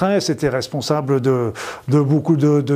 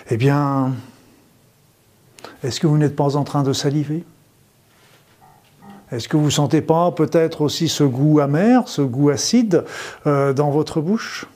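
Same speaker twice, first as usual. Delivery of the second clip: sultry narrator. Acted. End of the guided visualization.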